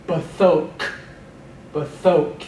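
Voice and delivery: Bathok, first vowel a short vocal schwa; Hebrew bathok. Shown as a demonstration. Teacher drills the vocal schwa, careful model word. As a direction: model Bathok twice, clean and even. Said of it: "that's a vocal schwa".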